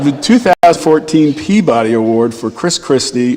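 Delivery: chuckling through the restart; laughing. Real, not acted. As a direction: say it again while still laughing. Restarting after audience laughter.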